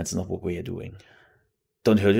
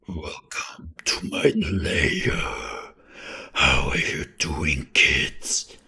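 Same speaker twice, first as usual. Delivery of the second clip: slow, louder whispered horror voice; hard creepy voice; 3 semitones lower, 5 dB louder, much slower than usual. Shown as a demonstration. Streamer demoing the harder voice to viewers, slow spooky whisper. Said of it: "The hard voice would be like".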